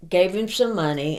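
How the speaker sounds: usual speaking voice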